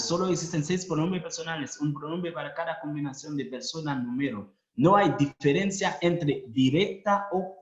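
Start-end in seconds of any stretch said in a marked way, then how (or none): 0.0-4.5 fast reading. Shown as a demonstration. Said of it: "lectura repetida rápida".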